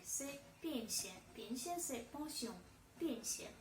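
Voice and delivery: pension said with a stressed "pie" sound: "piensia"; stressed Russian pension. Shown as a demonstration. Teacher demonstrating the word to French learners, stress on the first syllable. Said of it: "Y avec l'accent tonique".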